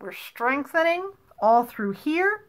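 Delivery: talking around a straw; words squeezed past a straw in the lips; blowing out hard. Shown as a demonstration. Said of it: "as we blow as hard as we can".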